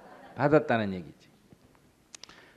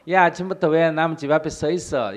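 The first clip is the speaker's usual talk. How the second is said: loud, raised angry yell; angry shout; 6 semitones higher, 8 dB louder than usual. Retold or imitated. House owner yells at the beggar, angry.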